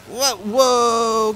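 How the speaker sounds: high, loud whoas; startled, stretched whoa; alarmed. Real, not acted. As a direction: cry out at a near miss. Near miss in game.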